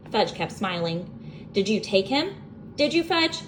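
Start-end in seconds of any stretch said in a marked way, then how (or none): 1.5-3.4 not so calmly. A narrator's reading. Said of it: "I asked not so calmly".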